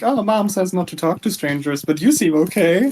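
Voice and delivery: imitating kid voice. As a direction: quote the kid in a childish voice. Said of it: "I love, like".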